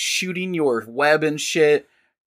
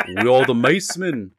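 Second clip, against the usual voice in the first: amateur British catchphrase; attempted British accent. Shown as a demonstration. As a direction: settle into a put-on British accent. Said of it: "that's how I get into the accent".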